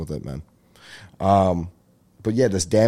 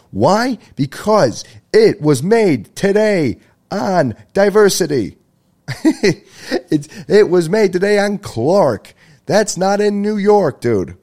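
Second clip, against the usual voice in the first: high, loud, drawn-out exasperated ranting; worked-up rant; 9 semitones higher, 5 dB louder, slower than usual. Real, not acted. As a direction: rail against the fake pizza, slow and loud. Heated rant about fake pizza.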